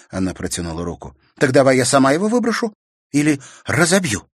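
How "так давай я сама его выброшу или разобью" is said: louder, quick and higher; snatch it from him; aggressive offer. A narrator's reading. Sister offering to smash the key, aggressive.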